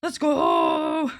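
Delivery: loud excited shout; hype cheer. Retold or imitated. Cheering at a debut with chat, loud hype shout. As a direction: yell it like a debut hype moment. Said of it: "I'm like".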